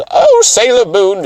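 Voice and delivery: put-on a slow upper-crust Eastern accent, almost British; upper-class Eastern accent. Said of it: "Eastern accent of, like, you're almost British".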